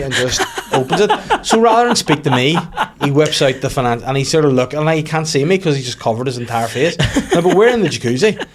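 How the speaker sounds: giggling through the story; laughing. Real, not acted. Telling the newspaper story, laughing.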